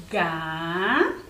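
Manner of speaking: Gato split as ga-to, one beat per syllable. Shown as a demonstration. Teacher checking syllables with the class, Gato said as ga-to. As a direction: clap out Gato as ga, to. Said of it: "Cada vez que eu abro a minha boca".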